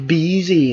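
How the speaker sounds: "busy" said with an i vowel, like bizzy; short i vowel. Shown as a demonstration. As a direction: say "busy" with i, not oo. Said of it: "ออกเสียงสระอิ". (ออกเสียง busy ด้วยสระอิ)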